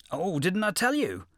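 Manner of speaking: high, loud, innocent jackal; feigned surprise, high yip; sly yippy jackal. A narrator's reading. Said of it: "said the jackal".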